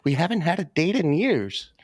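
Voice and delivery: husband imitating his happy wife, mock delight. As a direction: play the wife pleased by a rare date.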